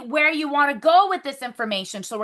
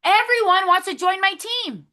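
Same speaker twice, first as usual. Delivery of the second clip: higher, upbeat affirmation; excited affirmation; 6 semitones higher than usual. Shown as a demonstration. Team leader to her recruits, a bright excited affirmation. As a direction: say it like you already believe it. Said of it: "I want you guys to say that".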